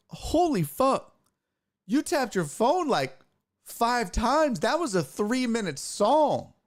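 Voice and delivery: incredulous. Retold or imitated. Stunned at phone tapping.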